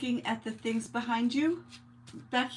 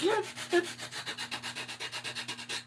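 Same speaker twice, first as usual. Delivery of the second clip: breathy giggle; 9 semitones higher, 4 dB quieter than usual. Real, not acted. Laughing at her own joke.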